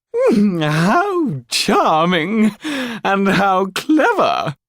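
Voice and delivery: a frivolous court lady teasing the doll; painted society lady. Acted. A lady with a painted fan asking the Pierrot a question, high and coy.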